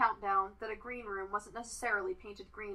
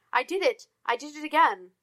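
triumphant; 6 semitones higher, 6 dB louder than usual. A narrator's reading. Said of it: "leapt from his chair in triumph".

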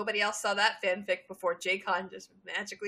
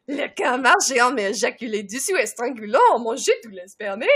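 French reading; 6 dB louder than usual. Acted. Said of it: "The French is amazing".

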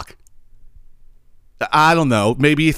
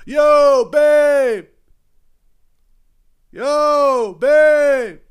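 very high, drawn-out imitation yell; mock hollering; 14 semitones higher, much slower than usual. Man calls up to his partner from across the street, high mock holler. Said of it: "said it as loud as he possibly could".

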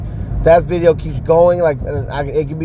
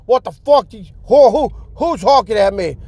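higher, lightly voiced indignant driver; mock outraged driver; 4 semitones higher than usual. Voicing the driver who hates being honked at, mock indignant. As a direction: play the phone addict, huffy.

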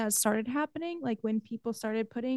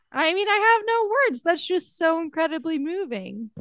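overwhelmed; 5 semitones higher, 4 dB louder than usual. Real, not acted. Overwhelmed by the album's ending.

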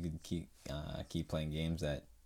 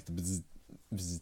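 lightsaber buzz; 4 dB quieter than usual. Shown as a demonstration. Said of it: "make the noise".

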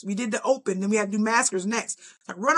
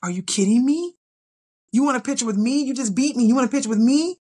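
mock outrage; 2 semitones higher, 4 dB louder than usual. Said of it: "I coulda lost it".

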